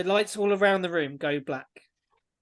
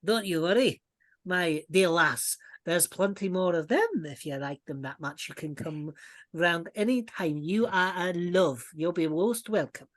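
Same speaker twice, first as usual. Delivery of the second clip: dwarf lady. Acted. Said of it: "how's her accent?".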